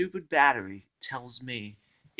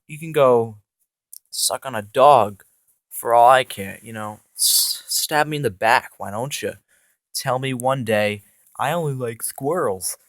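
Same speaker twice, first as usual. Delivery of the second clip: angry telling-off; 4 dB louder than usual. Retold or imitated. Boss yells at his boots for betraying him. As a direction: chew the boots out, hurt and furious. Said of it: "I say".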